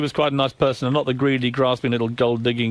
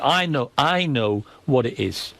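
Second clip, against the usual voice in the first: put-on slow, drawn-out Geordie accent; calmed-down Geordie imitation; slower than usual. She has worked out his motive, slow Geordie imitation. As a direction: imitate her settling into slow, knowing Geordie. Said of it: "eventually she calmed down".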